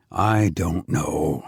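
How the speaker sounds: low, slow, gentle repeat; gentle doubt. A narrator's reading. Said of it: "old and wise and gentle".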